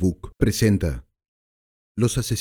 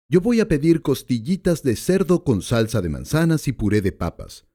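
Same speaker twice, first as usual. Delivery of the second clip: a lightly voiced tough customer, a bit higher; hint of a surly gangster; gangster ordering; 5 semitones higher than usual. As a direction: order dinner like a curt hoodlum. Narrator voices the first gangster.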